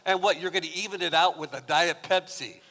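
mock-incredulous teasing; teasing mockery. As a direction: needle him about the Diet Pepsi. Teasing brother over Diet Pepsi.

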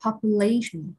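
population with LA stressed; population, main beat just before the ending; stress on third syllable. Shown as a demonstration. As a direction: lean on the LA in population. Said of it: "rơi vào âm thứ ba".

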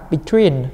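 "between" drawn out slowly with the weight on its second syllable; second-syllable stress. Shown as a demonstration. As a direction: lean on "tween" in "between". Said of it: "Âm hai em". (nhấn âm hai của "between")

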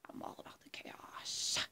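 soft, whispered villain sign-off; Joker. Acted. Performer closing the Joker monologue, sinister whisper. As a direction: hush it to a menacing whisper. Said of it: "that was my impression of Joker".

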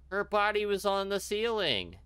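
high, slow, stretched-out protest; acted frantic insistence. Character telling Scott about the body, high frantic insistence.

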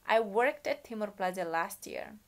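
slow, clear model reading for the class; slow model sentence. Shown as a demonstration. Teacher modelling a sentence for students to repeat, slowly. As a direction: read each word out slowly.

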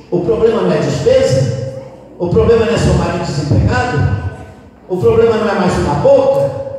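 loud, insistent questions; rhetorical challenge. Retold or imitated. Priest challenging a mother about her reasons, insistent. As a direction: press each question home forcefully.

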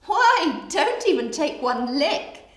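high, loud bird-like character voice; chattering flamingos, warning. Acted. Flamingos warning crocodile not to lick them, high chatter. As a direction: warn him off in a high, loud voice.

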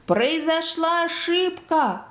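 high, very drawn-out call; calling out desperately. A narrator's reading. Doctor with cupped hands to the roof, slow high call. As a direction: stretch every word to carry upward. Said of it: "закричал изо всех сил".

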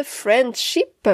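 Friendship said the English way, not the French; self-mocking English accent on Friendship. Shown as a demonstration. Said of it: "avec mon super accent anglais".

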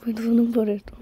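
breathy hushed apology; whispering. Real, not acted. Told to be quiet by mom.

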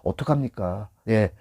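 mild, low-key appeal; gentle coaxing. Shown as a demonstration. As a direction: coax the customer gently. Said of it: "손님하고 살살 달래서".

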